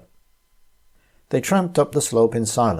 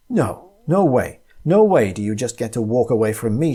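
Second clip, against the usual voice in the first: furious yell; 3 dB louder than usual. Acted. Tina raging at Tom as he walks away, yelling. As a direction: hurl it at him in rage. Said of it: "she yelled".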